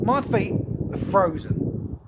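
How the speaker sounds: breathy, shivering words; whispered, shivering from cold. Real, not acted. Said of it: "I cannot believe how cold".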